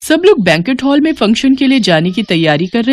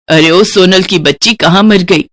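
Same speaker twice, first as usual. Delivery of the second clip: mock yell of a nagging mother-in-law, loud and scolding; impatient angry call; 4 dB louder than usual. Nagging mother-in-law yelling for her daughter-in-law, angry call.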